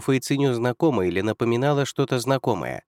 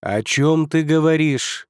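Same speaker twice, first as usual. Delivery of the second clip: frowning; 5 semitones higher, 4 dB louder, slower than usual. Acted. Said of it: "нахмурился владыка миров".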